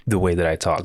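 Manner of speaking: talking with a mouthful; words round a mouthful of food; mouth full. Real, not acted. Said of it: "I have a mitt in my mouth".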